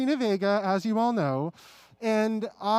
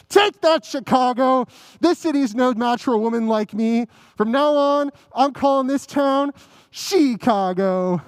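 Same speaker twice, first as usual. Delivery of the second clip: triumphant. Acted. Triumphant finale of show.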